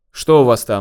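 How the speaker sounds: ordinary delivery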